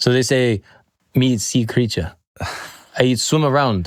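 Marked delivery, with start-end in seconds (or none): 1.1-3.9 put-on, imitated Jamaican accent. Imitating Jamaicans talking about not eating fish: imitating a Jamaican accent. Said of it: "doing the Jamaican accent".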